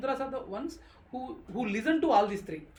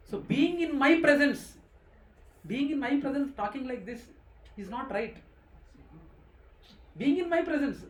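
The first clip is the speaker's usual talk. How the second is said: Krishna's rebuke. Acted. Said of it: "That's what Krishna is trying to highlight".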